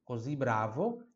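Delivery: così with a voiced Z; Z sound in così. Shown as a demonstration. Teacher explaining the letter S, Z sound in così. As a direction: buzz the S of così as Z. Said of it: "esse é a extensão de Z".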